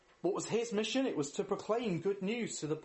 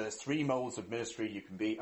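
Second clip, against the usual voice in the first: put-on American accent, pitched lower; 6 semitones lower than usual. Quoting trendy books on modes of ministry, mock American accent. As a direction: lightly imitate an American author's accent. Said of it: "doing an American accent".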